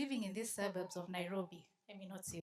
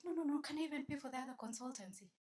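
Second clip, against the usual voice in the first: mock pleading lady; 5 semitones higher, 4 dB quieter, faster than usual. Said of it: "She's like".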